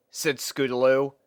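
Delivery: usual speaking voice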